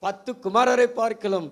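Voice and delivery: slow, drawn-out mock comfort, pitch up a little; husband soothing his weeping wife, lightly mocked; Elkanah consoling Hannah. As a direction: stretch the comfort out like a hollow sweet-talker. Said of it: "அன்னாளை பார்த்து எல்கனா சொன்னாரு".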